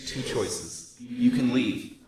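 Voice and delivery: calm, stately sorceress. Acted. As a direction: speak as a grave sorceress. GM voices Helena.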